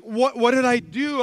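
imitated baffled innocence; bewildered protest. American friend asking afterwards what went wrong, bewildered. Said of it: "he was like".

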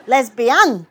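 loud "Lesbian" with the final syllable stressed; three-syllable lesbian. A narrator's reading. Narrator showing father's pronunciation, last-syllable stress on "Lesbian". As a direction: break "Lesbian" into les-bi-AN, punching the end. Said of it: "with three syllables, with emphasis on the last".

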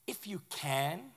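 slow, quiet, weighing the words; a hushed, searching if you can; Jesus, softly. Retold or imitated. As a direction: let it hang as a soft question. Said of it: "And Jesus looks at him and says".

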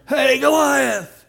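put-on a boy's bold battle cry, called out loud; hollering. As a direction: call out to the giant from far off. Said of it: "they're kind of hollering".

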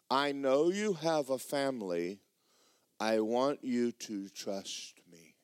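slow, tender voice of God; patient, unhurried retold comfort; gentle reassurance. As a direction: reassure slowly, giving each word room. Retold God reassuring the weeping pastor.

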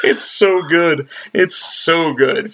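slow emphatic praise. Real, not acted. Drawn-out praise.

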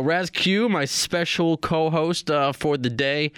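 radio host voice. Real, not acted. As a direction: introduce the guest like a host. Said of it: "get my radio voice prepared".

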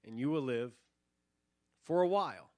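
high, loud first word, then measured warning; William Wallace. Acted. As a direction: answer the soldiers as a commander, punching the opening word. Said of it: "the actor playing William Wallace responds, he says".

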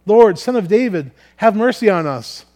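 loud, high cry for mercy. A narrator's reading. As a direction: call out insistently over a crowd. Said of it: "shouted all the louder".

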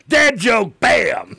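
loud, high shout through a laugh; gleeful heckle. Pretend. Co-host calling out the dad joke, gleeful shout. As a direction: punch it out like a gag buzzer. Mock-announces co-host's corny joke.

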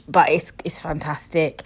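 conspiratorial whisper. Real, not acted. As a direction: whisper it as a naughty secret. Cheeky aside about the vibrator.

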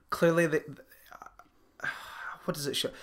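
whispered to herself while searching for words; whisper to self. Real, not acted. Losing her train of thought mid-podcast, whispering to herself. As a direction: drop to a sigh and whisper, thinking aloud.

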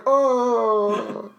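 loud, high Irish-style "oh"; hammed-up Irish exclamation; Irish accent. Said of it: "Ben does a great Irish accent".

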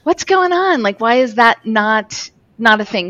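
a mock gasp of 'wait, what's going on?'; incredulous surprise. Recalling her shock that the owners ignored their old dog, incredulous. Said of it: "I'm like".

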